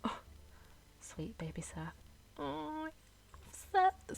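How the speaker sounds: soft fondness lifting high on the name; affectionate cooing. Real, not acted. Player cooing over a favourite Sims character, affectionate gushing. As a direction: coo softly, rising to a high fond squeal.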